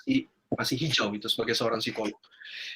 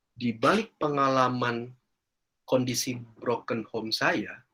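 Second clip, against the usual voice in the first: heartfelt; 2 semitones lower than usual. Real, not acted. Moving conclusion of story.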